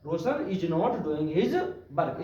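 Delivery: very slow, word by word dictation; slow, even classroom dictation. Shown as a demonstration. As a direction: give the class time to write each word. Teacher dictates the translation again.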